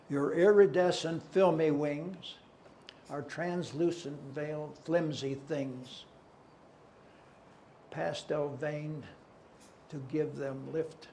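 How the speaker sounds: measured verse, falling away after the opening; poem recitation. Acted. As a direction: recite in short, separated phrases.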